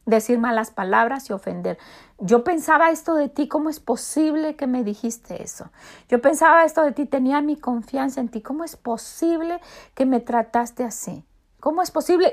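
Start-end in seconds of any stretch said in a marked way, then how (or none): 2.2-12.3 pretend angry outburst. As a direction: act out a wounded friend lashing out. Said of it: "yo puedo ir y gritar y decir todo".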